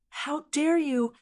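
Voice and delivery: slow, high furious roar. A narrator's reading. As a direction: roar it in outrage. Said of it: "the Iron Tower Demon Emperor roared".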